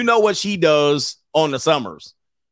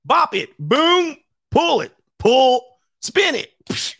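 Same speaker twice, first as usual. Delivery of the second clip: high mock toy voice; 11 semitones higher, slower than usual. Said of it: "You be like".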